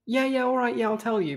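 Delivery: mildly acted hurried agreement; giving in readily. Captive caving to the demand, eagerly agreeing. Voices Jack giving in at once.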